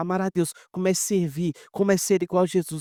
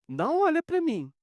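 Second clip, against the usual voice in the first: emphatic repeat; 11 semitones higher than usual. Retold or imitated. Repeated much higher, emphatic.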